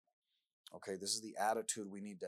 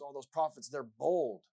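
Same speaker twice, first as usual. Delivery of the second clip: mock heroic praise; 5 semitones higher, 8 dB louder, slower than usual. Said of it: "We read in the Bible sometimes".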